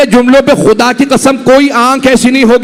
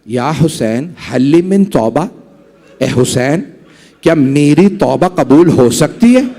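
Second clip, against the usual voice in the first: pleading repentance; 6 semitones lower than usual. Acted. Hurr begs forgiveness at Husain's feet.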